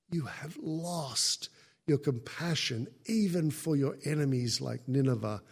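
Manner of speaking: ordinary talk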